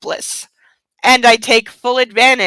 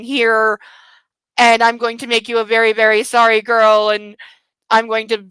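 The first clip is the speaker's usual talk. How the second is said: mock dom speech. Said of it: "this is a game that is popular in the scene, which is".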